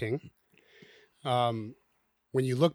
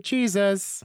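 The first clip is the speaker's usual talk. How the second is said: put-on a touch of bright, higher, louder Sunday school kid; mock Sunday school answer; 7 semitones higher, 3 dB louder than usual. Host mocking the Sunday school answer to parenting, playful. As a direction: chirp the obvious answer lightly mocking. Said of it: "It's almost a Sunday school answer".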